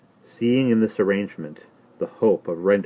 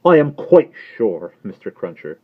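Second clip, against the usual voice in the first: put-on high, loud, anxious old lady; agitated Miss Pross; 5 semitones higher, 8 dB louder than usual. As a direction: fret at him in a much higher voice. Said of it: "returned Miss Pross".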